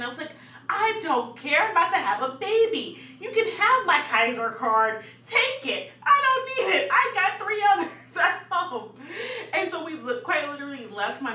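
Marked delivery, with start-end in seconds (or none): 0.7-8.9 loud, high, climbing rant; retold exasperated outburst. Labouring woman refusing to sign in, retold exasperated outburst. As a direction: build to a high, loud dismissal. Arguing with receptionist about sign-in.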